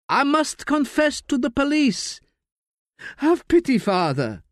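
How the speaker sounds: high, thin pleading of a dying man; frail dying old man. Acted. Dying uncle begs the priest to let him confess, frail plea. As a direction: beg the priest with the last of your strength.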